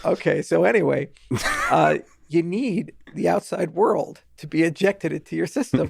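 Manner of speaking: fighting back a laugh, keeping a straight face; stifled giggle under the words; holding back laughter. Real, not acted. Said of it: "I'm trying to keep a straight face".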